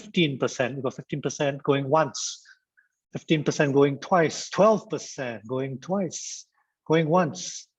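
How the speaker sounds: lightly voiced auctioneer, drawing out the calls; mock auction countdown, stretched slow at the end; playful auctioneer. Trainer taking participants' numbers like bids, playful auctioneer. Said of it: "This is like an auction".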